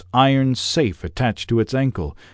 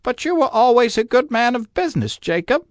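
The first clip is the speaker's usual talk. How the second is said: put-on much higher, hesitant old man's plea; faltering Scrooge; 14 semitones higher than usual. A narrator's reading. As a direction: falter it out nervously. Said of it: "faltered Scrooge".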